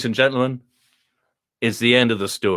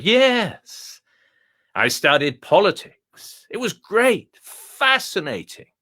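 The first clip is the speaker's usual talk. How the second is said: a high, plummy Etonian dog, pleased with itself; the dog boasts in a high, refined voice; posh dog voice; 7 semitones higher, slower than usual. Acted. Telling the visitor about his schooling, high and plummy. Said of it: "speak like this".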